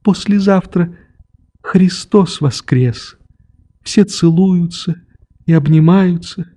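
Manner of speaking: high, slow, tearful pleading; a child near tears, then driving him out; tearful girl. A narrator's reading. Nelli tearfully sends the old man away. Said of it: "Она залилась слезами".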